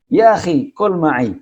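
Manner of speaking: Arab friend inviting to eat; inviting Arab host. Retold or imitated. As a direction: call out brightly to a passing friend.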